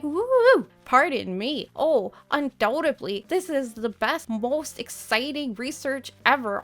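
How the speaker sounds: high, loud, giddy nerdy scholar voice; excited owl voice. Retold or imitated. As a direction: play the overexcited owl professor, squealing with glee. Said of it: "He'd be like".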